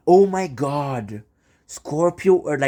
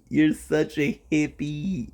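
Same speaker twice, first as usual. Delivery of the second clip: slow, drawn-out teasing; teasing put-on voice; 3 semitones higher, slower than usual. Shown as a demonstration. Teasing the guest about being a hippie, in a slow mock voice. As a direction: stretch it out in a mock voice.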